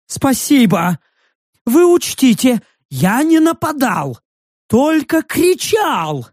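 high excited creature voice, slowing at the end; nervous creature defending itself; high creature pleading. A narrator's reading. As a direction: insist you only shouted, nervous beast.

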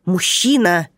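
строгий окрик, с падением в конце; одёрни его строго. Acted. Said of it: "строго проговорила Виктория Альбертовна". (смотрительница строго одёргивает нарушителя)

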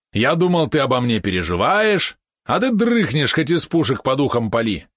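high indignant yapping; yappy small dog. Acted. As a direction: yap it out like an angry little dog. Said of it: "возмущённо протявкал он".

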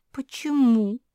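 shaky, high little question; trembling voice. Acted. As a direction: ask with a trembling voice. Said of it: "Дрожащим голосом осведомилась Куки".

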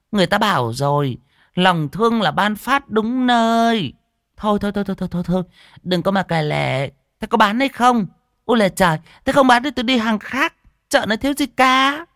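high scolding market shrew; sour, sharp-tongued. A narrator's reading. Fat woman threatens to buy elsewhere, sour high scolding. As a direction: lecture and dismiss her in a high, sharp voice. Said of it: "hứ một cái chua ngoa".

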